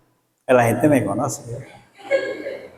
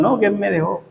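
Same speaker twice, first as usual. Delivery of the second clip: mock lovesick girl; 3 dB quieter, faster than usual. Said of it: "Las muchachas que se mueren".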